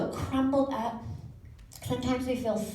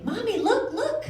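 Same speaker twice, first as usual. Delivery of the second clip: put-on high-pitched kid calling out to mommy; excited child; 12 semitones higher, 4 dB louder than usual. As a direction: beg for mom's eyes in a high little voice. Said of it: "they'll be on the swing".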